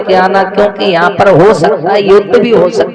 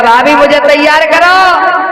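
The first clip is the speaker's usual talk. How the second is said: Shishupal insisting; 5 semitones higher than usual. Retold or imitated. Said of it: "कहने लगा".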